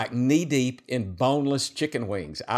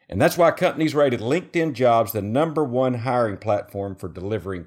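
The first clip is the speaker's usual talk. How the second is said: ad read; 3 semitones lower than usual. Acted. Reads a sponsor ad.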